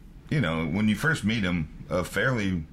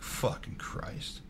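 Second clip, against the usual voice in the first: whispered aside; 11 dB quieter, much slower than usual. Retold or imitated. His muttered reaction to the insult.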